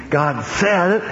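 "said" drawn out and pitched high; slow quote, leaning hard on "said"; stress on said. Acted. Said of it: "don't put the emphasis upon "God said".

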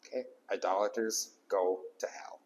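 soft whisper of a grim truth; whispered repeat. Shown as a demonstration. Pastor repeats the warning to the congregation, whispered. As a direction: whisper it for weight. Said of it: "repeated line".

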